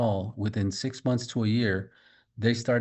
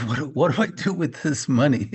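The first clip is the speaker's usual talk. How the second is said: laughing; 3 semitones higher than usual. Retold or imitated. Retold lady laughing.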